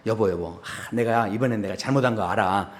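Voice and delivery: low, soft confession with a sigh; quietly pleased apology; knowing, self-satisfied husband. Acted. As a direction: say it low, sure you have it figured out. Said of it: "회심의 미소를 지으면서".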